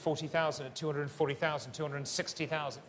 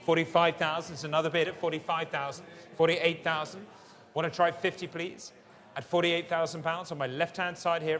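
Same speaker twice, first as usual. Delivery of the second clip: fine art auctioneer. Acted. Live art auction calling bids.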